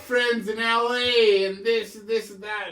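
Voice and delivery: cocky braggart. Retold or imitated. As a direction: puff your chest out and brag. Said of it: "he's really fucking puffing his chest out".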